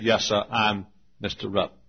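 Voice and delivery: lightly imitated Southern drawl; Adolph Rupp, Southern drawl. Coach introducing himself on the plane, Southern drawl. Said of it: "in a very pronounced Southern drawl".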